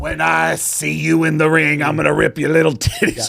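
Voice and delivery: slow, loud, booming giant's voice; Andre the Giant. Pretend. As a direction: growl a slow wrestling threat. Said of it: "Andre the Giant".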